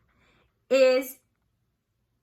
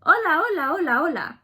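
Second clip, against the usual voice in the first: bright, louder hello to the dog; excited greeting; 5 semitones higher, 3 dB louder than usual. Pretend. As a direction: greet Toby eagerly. Friends greeting Toby.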